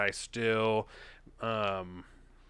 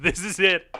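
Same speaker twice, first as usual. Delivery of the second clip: mock dramatic lament; 6 semitones higher, 11 dB louder than usual. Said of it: "I said".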